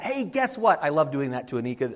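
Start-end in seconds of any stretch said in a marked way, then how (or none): 0.0-0.8 high-pitched teasing announcement; acting all excited. Preacher teasing Anika with news, put-on excitement. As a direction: play up big news to hook the listener. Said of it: "I'll act all excited".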